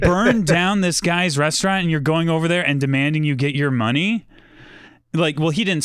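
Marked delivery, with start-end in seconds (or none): 0.0-4.3 mildly outraged disbelief, pitch jumping up at first; incredulous. Retold or imitated. Reacting to an egregious demand.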